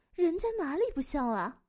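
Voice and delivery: mock-offended, girlish whine; cutesy protest. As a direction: protest like a pouting girl. Woman protests, not girlish.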